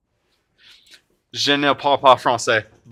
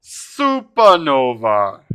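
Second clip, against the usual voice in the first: savoring the name; 4 dB louder, much slower than usual. Real, not acted. Repeats card name in celebration.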